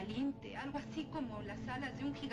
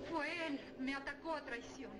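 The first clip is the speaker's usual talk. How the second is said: panicked outcry; 4 semitones higher than usual. Acted. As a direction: cry out in panic. Countess wakes in panic.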